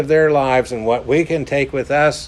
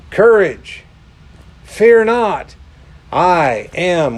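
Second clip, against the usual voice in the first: ringing proclamation; 3 semitones higher, 3 dB louder, slower than usual. Acted. Jesus calling across the stormy sea, ringing out. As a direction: call it out like a herald.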